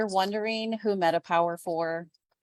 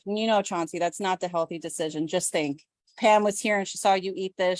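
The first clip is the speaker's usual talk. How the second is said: self-talk. Retold or imitated. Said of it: "telling myself".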